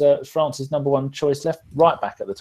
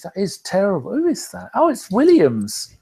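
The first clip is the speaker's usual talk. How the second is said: very high-pitched voice; 7 semitones higher than usual. Real, not acted. Host spotting who shoved the goalkeeper, very high-pitched voice. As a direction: squeal it high in real surprise. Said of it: "I said that in a very high-pitched voice".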